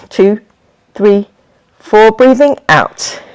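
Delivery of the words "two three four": evenly spaced count on a level pitch; inhale count. Shown as a demonstration. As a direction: count an in-breath, leaving gaps.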